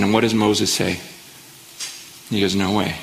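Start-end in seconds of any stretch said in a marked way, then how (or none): 2.5-3.0 low, soft and resolute; quiet refusal. Retold or imitated. Moses refusing God's offer.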